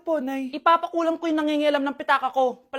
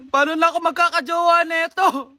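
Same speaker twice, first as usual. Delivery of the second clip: whiny cry; 4 dB louder than usual. Acted. Girl despairs over face.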